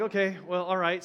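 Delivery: chuckling, half exasperated okay; laughing resigned. Retold or imitated. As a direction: give in with a chuckle. Son insists they eat.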